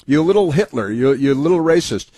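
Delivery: mock the congressman yelling insults; mock ranting congressman. Host parodies congressman yelling at the secretary, hammed-up rant.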